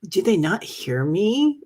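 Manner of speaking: retold moment of puzzlement; puzzled self-quote. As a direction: wonder it aloud, drawn out and rising. Retells puzzlement at silent audience.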